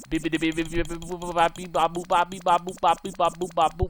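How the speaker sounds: rapid run of mouth-made beeps and boops; playful beeping noises. Real, not acted. Player making noises while clicking through settings, playful beeping.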